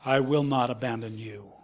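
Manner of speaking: whispered, soft and close; tender whisper. Acted. Jesus promising his disciples, in a tender whisper. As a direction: breathe the promise like a secret comfort.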